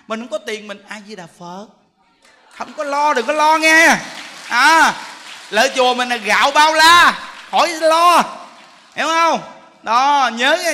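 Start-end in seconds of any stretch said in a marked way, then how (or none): 2.5-10.7 higher and louder, urging the listeners on; preaching at full force. Real, not acted. Monk reassuring far-off followers they need not worry, preaching at full force. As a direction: rouse the crowd as if from the pulpit. Monk exhorting loudly to the congregation.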